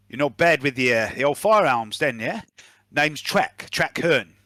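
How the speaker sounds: lightly voiced approving mercenary; mercenary character. Mercenary introduces himself after gun trick, lightly voiced and approving. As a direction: give the hired gun a matey touch. Game master voices Trek.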